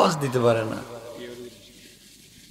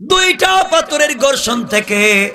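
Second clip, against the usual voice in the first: melodic preaching; 3 semitones higher than usual. Real, not acted. Preacher telling the crowd a desert tale, chanted. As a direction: chant the tale, stretching phrase endings.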